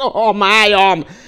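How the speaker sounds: very loud, shrill cry of pain. The badger, in the stack of animals, as the fox laughs: crying out in pain. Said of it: "fájdalmasan felkiáltott".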